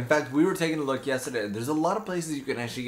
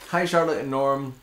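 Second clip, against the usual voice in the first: chewing gum; 3 semitones higher than usual. Real, not acted. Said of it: "It's really hard to do this with gum in your mouth".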